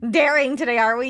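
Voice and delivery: playful cashier voice. Pretend. Playful cashier bit, Culver's order.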